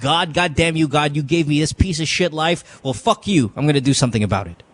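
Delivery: mildly angry demo, rushing at the end; angry defiance. Shown as a demonstration. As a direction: model fed-up defiance without shouting. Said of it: "I want you to sound angry".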